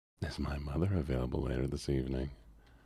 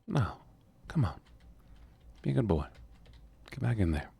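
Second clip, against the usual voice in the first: mock stern Southern command; higher scolding commands; 7 semitones higher than usual. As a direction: order the villager back inside, raised. Scolding a villager to go inside.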